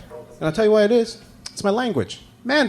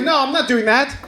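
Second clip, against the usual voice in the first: flat refusal; 10 semitones higher than usual. Retold or imitated. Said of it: "I was like".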